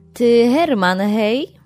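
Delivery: mocking sarcasm. Emilia Krajewska calls out to Herman, sarcastic. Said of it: "Rekła z sarkazmą".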